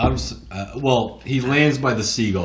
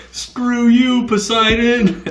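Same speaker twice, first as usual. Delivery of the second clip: defiant shout; 8 dB louder, much slower than usual. Retold or imitated. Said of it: "he's like".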